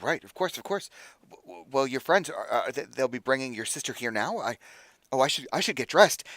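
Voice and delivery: stammering, eager agreement; flustered eagerness. Acted. Friend hurrying to get ready for guests, flustered. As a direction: stumble from one thought to the next. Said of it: "tripping over his own thoughts".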